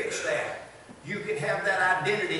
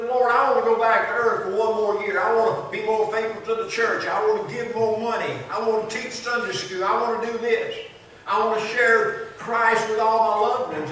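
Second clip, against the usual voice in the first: louder, urgent begging, each want pushed; mock pleading with God; 3 semitones higher, 5 dB louder than usual. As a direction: beg for one more year. Dead man pleads with the Lord.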